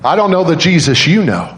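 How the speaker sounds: mock-tearful, high-pitched admission; retold crying. Crying nurse admitting it to the father, imitated high plea. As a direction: imitate the crying nurse repeating her confession. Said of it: "the nurse is crying".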